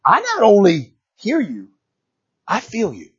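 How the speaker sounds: slow, softening as God's answer; gently reassuring, unhurried; tender reassurance. Acted. God tenderly answering Hezekiah.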